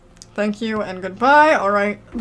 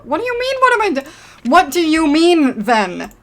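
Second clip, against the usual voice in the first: incredulous; 7 semitones higher, 6 dB louder than usual. Real, not acted. Baffled at patient's claim.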